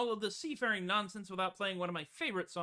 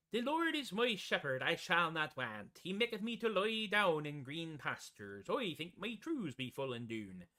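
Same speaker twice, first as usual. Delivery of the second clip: broad piratey Elizabethan dialect; Renaissance faire accent. Shown as a demonstration. Demonstrating the California fairs' basic accent, broad Elizabethan. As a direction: recite it in a stagey old faire accent. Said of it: "was along these lines".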